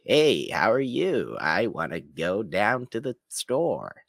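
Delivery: high, slow nasal-free imitation of Dan Duryea; lightly voiced Dan Duryea drawl; Dan Duryea impression. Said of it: "Kind of talks like".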